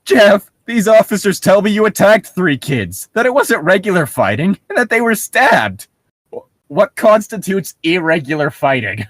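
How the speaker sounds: lightly voiced stern mother; mock stern mom; mother scolding. Voicing the mother.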